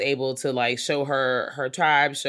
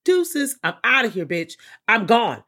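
mock fleeing; 6 semitones higher, 4 dB louder than usual. Imagining fleeing from technology.

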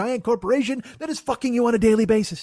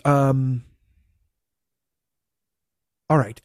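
lower, dim mock cashier drawl; dopey cashier; 9 semitones lower, slower than usual. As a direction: play the slow checkout guy, lightly. Cashier voiced in retold story.

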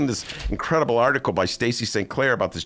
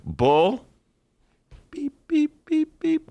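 "beep, beep" high like a bleep; censor bleep; much slower than usual. Shown as a demonstration. Mocking the Tribune's censoring, bleep sounds. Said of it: "I'm gonna be like the Tribune".

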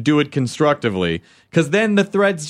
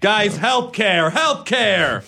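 pundit voice; 6 semitones higher, much slower than usual. Pretend. Mock political talk show.

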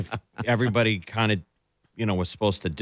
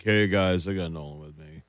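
mock resigned; 4 semitones lower than usual. Acted weary dad bringing son in.

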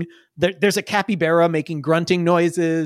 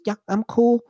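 Iggy; 4 semitones higher than usual. Acted. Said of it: "Iggy goes".

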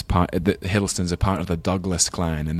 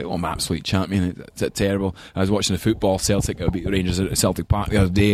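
light Glaswegian accent, imitating grandpa; a hint of a Glaswegian grandfather chatting football. Grandson imitates Glaswegian grandpa on the phone, light Glaswegian accent. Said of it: "had a really strong Glaswegian accent".

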